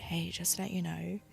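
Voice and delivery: soft, gentle correction; kind correction. Retold or imitated. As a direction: correct them nicely, softly. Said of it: "be nice about it".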